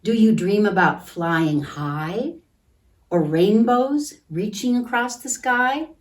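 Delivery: put-on slow, gentle read-aloud for kids; storybook reading. A narrator's reading. Teacher reading a picture book to children, gentle.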